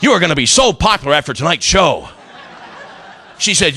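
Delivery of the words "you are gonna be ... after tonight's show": laughing disbelief. Retold or imitated. Comic answering the girl in the crowd, laughing disbelief. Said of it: "I'm like".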